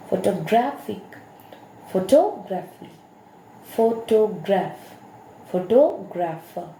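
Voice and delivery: Photographic, photography, photograph, photographer, each stress spot marked clearly; shifting word stress. Shown as a demonstration. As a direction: show the stress moving across the word family. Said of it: "the stress has been changed".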